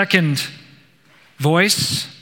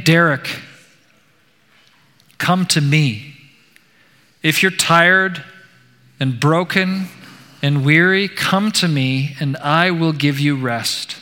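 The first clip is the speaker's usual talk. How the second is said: a hint of a tender divine voice; gentle, loving voice. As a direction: offer comfort to a broken man, gently. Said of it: "The voice was gentle and loving".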